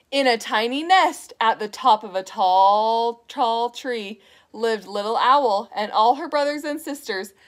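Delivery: measured, low-pitched storybook narration; reading to children. A narrator's reading. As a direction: read a picture book aloud to little ones.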